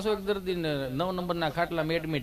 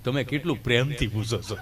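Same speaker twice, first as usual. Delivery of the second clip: bashful laugh; 8 semitones lower than usual. Retold or imitated. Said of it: "ગભો".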